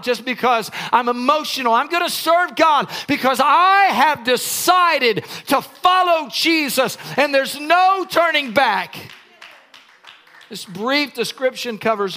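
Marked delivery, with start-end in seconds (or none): 1.7-9.0 rousing declaration. Acted. Declaring resolve, shout heard.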